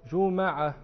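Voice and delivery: جمعة said slowly "ju-MA-'a", a after the m; fatha on the mim. Shown as a demonstration. Teacher listing the word's three vowellings, جمعة as "juma'a". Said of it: "تثليث للحركة، فهي مح-، مثلثة الميم".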